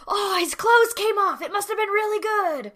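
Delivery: high, far-off amazed voice; awed school people. Retold or imitated. School people marvel at the headmaster, high and awed. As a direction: gush with mock awe. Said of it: "the school people are like".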